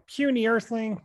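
lightly voiced alien overlord; a hint of a pompous Martian; Marvin the Martian voice. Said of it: "I used to do a spot on Marvin".

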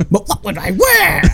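high-pitched exclamation; hammed-up cry of dismay; mock wail. Fan quotes the Grinch's schedule dilemma, mock wail.

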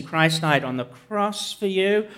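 slow but half-hearted declaration. Shown as a demonstration. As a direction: say it as if it doesn't quite land. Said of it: "a lot less convincing".

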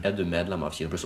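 over-slow and soft, spelled out for someone slow; exaggeratedly slow. Shown as a demonstration. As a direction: drag the question out painfully slowly. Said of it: "roer jeg det ned til et sånn retardert nivå". (overdrevent sakte og lavt)

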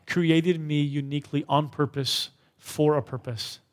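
"created me uniquely on purpose for a purpose" slow, stressed on "created"; slow recited affirmation; slow declaration. Shown as a demonstration. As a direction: read it out slowly for the room. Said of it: "You ready to say that with me?".

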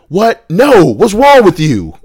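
put-on old patient protesting in indignant surprise; indignant shock. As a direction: play the patient's shocked denial. Patient shocked at the KKK question.

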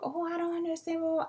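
high mocking mom voice; high whiny mom parody. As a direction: pitch it up to parody her. Mimicking mom's reply.

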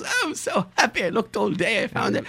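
very high, elated mock clerk; hyped up. Clerk tells traveler he found the bags, hyped-up high voice. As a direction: imitate a clerk thrilled with himself. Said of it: "He got so hyped up".

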